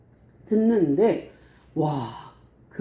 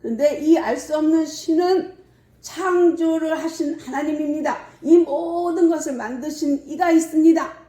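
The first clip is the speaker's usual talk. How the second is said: high, emphatic preacher's declaration; re-enacted impassioned public sermon; Paul proclaiming; 5 semitones higher than usual. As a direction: proclaim it to the crowd, pitch held high. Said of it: "하고 선포를 했어요".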